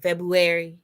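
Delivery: February as FEB-yoo-berry, no first R; wrong pronunciation. Shown as a demonstration. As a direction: drop the R after the B in February. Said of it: "it's not a berry either".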